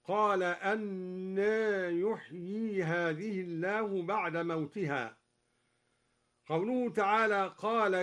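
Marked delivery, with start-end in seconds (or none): 0.4-5.2 slow recitation showing the variant reading; al-Duri reading. Shown as a demonstration. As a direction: recite أنى يحيي هذه الله slowly with Duri's imala. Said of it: "الاستفهامية هذه هكذا".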